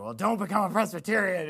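lightly voiced dad giving a warning; cautioning dad. Dad warning his kid about the youth group, lightly imitated. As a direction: imitate a dad's half-hearted caution. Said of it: "he's just like".

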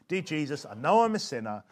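prayer led in short sections; measured, phrase-by-phrase prayer; small sections. Shown as a demonstration. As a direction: lead it a small piece at a time. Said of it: "Do it, do small sections".

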